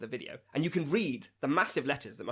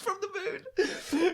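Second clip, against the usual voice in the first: silly high voice; much slower than usual. Pretend.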